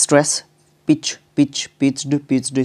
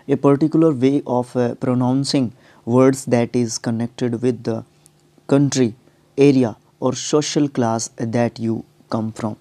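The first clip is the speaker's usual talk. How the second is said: slow, careful reading of an English definition; measured classroom dictation; much slower than usual. Shown as a demonstration. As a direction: read it out slowly so students can note it down. Teacher reads definition aloud.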